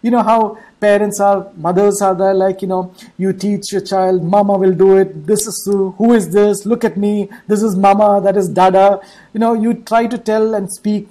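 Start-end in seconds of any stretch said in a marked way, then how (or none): 4.2-9.0 put-on loud, coaxing mother to a baby; mother coaxing her baby, louder; mother teaching baby. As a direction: coax the baby to say Mama, louder. Parent voiced teaching child.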